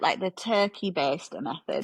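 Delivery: lightly Scouse, drawn out; Scouse accent. Real, not acted. Cohost asking about the fertility method, accidental Scouse accent. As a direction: slip into a touch of Scouse. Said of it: "did that in a Scouse accent".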